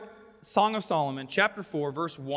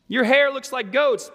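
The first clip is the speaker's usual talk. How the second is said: louder, higher, teasing like a thinly veiled insult; mock backhanded compliment; 4 semitones higher, 5 dB louder than usual. Groom throwing shade at bride's hair, mock teasing delivery. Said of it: "if he's throwing shade".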